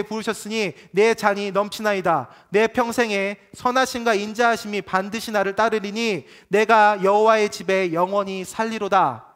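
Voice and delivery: measured, solemn reading of the psalm, slowing at the end; scripture reading. Shown as a demonstration. Pastor reading Psalm 23 to the congregation, solemn. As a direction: read the psalm aloud with reverence. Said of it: "제가 읽어드릴게요".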